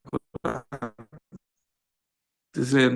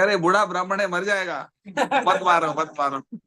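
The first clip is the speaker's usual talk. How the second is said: a hint of a wife pleading, higher; lightly voiced pleading wife; 4 semitones higher than usual. Wife begging for the old Brahmin to be spared, mild imitated pleading. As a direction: retell the wife's plea in a lightly raised pitch. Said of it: "she was saying".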